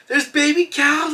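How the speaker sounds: high-pitched, drawn-out little cry of delight; slow, high kid voice; imitating an excited kid. Child spotting calves up close, excited high voice.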